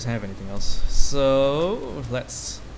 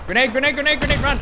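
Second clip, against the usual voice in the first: grenade warning yell; 12 semitones higher than usual. Real, not acted. Grenade thrown at the player.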